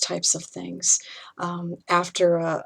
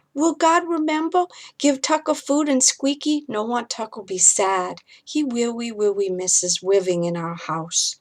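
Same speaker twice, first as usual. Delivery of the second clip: put-on a small boy asking if the monster is gone; scared little boy; 4 semitones higher than usual. Ethan asks his mother about the monster, high and small.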